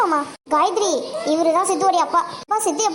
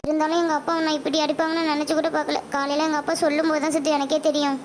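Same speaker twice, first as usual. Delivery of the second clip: soft, lowered, remorseful voice; subdued regret; 3 semitones lower, 4 dB quieter than usual. Acted. Girl tells injured boy she never expected the beating, subdued. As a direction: explain it gently, feeling guilty.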